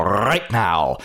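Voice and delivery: "right now" with a trilled R on "right"; rolled R's. Shown as a demonstration. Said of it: "I can roll my R's".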